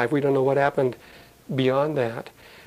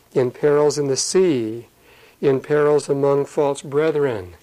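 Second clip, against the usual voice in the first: solemn recitation. Acted. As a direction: build the list of perils steadily. Recites Paul's list of perils.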